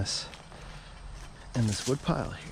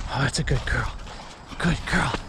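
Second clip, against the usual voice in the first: squeaky praising a dog; 4 semitones higher, faster than usual. Real, not acted.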